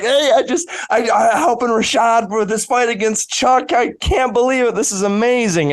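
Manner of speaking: high, gushing retelling of the call home; retold excitement. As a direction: bubble over like a kid telling his parents big news. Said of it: "calling my parents, like".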